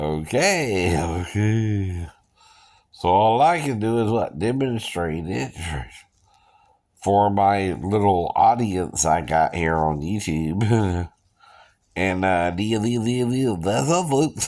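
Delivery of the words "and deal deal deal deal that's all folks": put-on cartoon pig voice, stuttering, faster. Speaker demonstrates for a YouTube audience, Porky Pig impression. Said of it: "That's Porky Pig".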